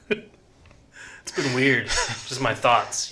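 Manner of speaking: drawn-out deadpan; very slow. Pretend. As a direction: drag it out slowly. Joking about feeling fascist.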